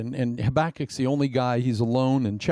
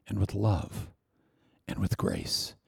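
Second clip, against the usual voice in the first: lower, softer to a whisper; tender fade; 6 semitones lower, 6 dB quieter than usual. Acted. Preacher speaking of grace, fading to a whisper. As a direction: let it fall to a whispered hush.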